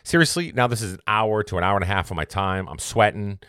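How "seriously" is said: exasperated disbelief. Retold or imitated. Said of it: "I'm like".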